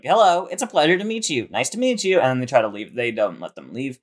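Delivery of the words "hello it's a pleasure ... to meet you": 1 polite scared gang. Retold or imitated. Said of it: "They're like".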